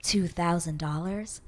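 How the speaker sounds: lightly sultry, slowed down; a hint of a seductive host; sexy voice. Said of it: "super sexy voice that's like".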